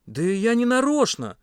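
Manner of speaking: high, slow helpless bleat; babbled excuse. A narrator's reading. Pasha backs away from accusers, bleating an excuse. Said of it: "пролепетал Паша".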